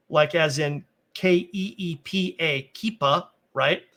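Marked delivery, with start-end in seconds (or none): 2.7-3.3 "keepa" said as KEE-pa, long ee, ending -a; Aramaic word. Shown as a demonstration. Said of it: "it's pronounced keepa".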